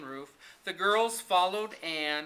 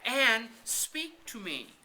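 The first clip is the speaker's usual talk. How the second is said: higher and slow, a frightened plea; pleading; 8 semitones higher, 3 dB louder, slower than usual. Acted. Diana kneeling by fallen Anne, slow frightened plea. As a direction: beg her to answer, slowly.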